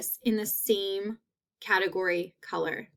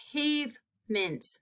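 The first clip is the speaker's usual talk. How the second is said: softer, slow "Pavement" stretching the A; slow model word; 3 semitones higher, 5 dB quieter, slower than usual. Shown as a demonstration. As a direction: repeat it gently for the class. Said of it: "That long A sound".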